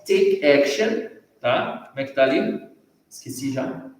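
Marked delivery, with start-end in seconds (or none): 0.1-1.1 "take action" said slowly and high, each word clear; careful model phrase. Shown as a demonstration. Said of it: "Ó".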